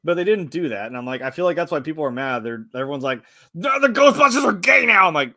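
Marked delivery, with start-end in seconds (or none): 3.5-5.1 loud, high-pitched mimicked complaint; mock outrage. Mimicking angry fans complaining about Ghostbusters, in loud high mock outrage. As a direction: imitate an indignant fan crying out.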